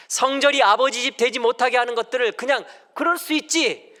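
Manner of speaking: high, loud preaching voice; emphatic preaching. Acted. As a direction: drive it home to the congregation, loud and high. Preaches at full force. (힘주어 외치는 설교)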